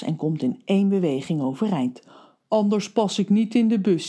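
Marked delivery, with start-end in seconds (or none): 2.5-4.1 smiling. Acted. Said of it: "zegt hij glimlachend".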